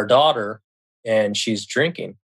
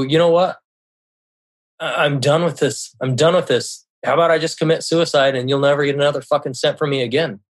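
higher-pitched, exasperated outburst; fed up; 4 semitones higher, 3 dB louder, faster than usual. Retold or imitated. Man to his partner in a money quarrel, fed up. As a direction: retell a heated ultimatum, fed up and done.

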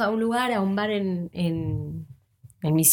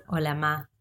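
laughing hello; 4 semitones lower, 5 dB quieter than usual. Real, not acted. Laughing greeting to mom.

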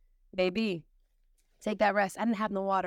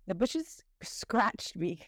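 slow confiding whisper; hushed, slow admission; much slower than usual. Real, not acted. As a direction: whisper it like a secret. Confessing getting scratched.

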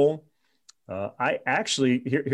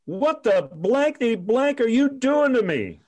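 mock angry rant; 12 semitones higher, 3 dB louder than usual. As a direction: rage at him down the phone. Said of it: "he grabs the phone".

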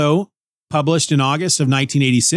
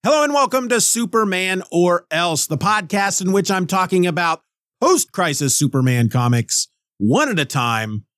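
podcast intro read; 4 semitones higher than usual. Shown as a demonstration.

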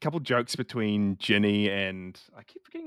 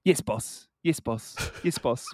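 lightly mocking, repeated sign-off; a touch of sarcasm, making fun of it; sarcastic; 2 semitones higher than usual. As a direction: imitate someone sarcastically humoring the boss. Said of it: "he just really sarcastically goes".

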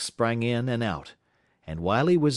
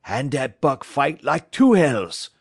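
slow, louder French-Canadian boast; French-Canadian driver; 5 semitones higher, 7 dB louder than usual. Acted. Francois answering Perrault about Buck, proud French-Canadian accent. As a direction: top the other man's remark in a French-Canadian accent. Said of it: "was Francois's answer".

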